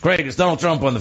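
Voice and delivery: light attempt at an impression, barely altered voice; half-committed celebrity impersonation; Donald Trump. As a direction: have a loose go at mimicking a famous politician. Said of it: "this is my Trump impression".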